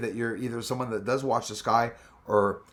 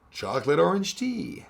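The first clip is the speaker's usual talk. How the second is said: ordinary talk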